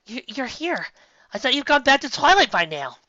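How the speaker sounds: startled to see them; surprised. Acted. Sunset surprised by friends.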